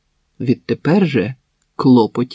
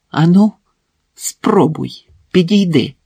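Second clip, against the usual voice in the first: threat; 5 semitones higher, 5 dB louder than usual. Acted. Marina holds knife at Max.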